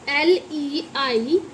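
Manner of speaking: slow letter-by-letter spelling; measured classroom spelling. Shown as a demonstration. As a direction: spell it out one drawn letter at a time. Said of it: "इसे बोलेंगे हम".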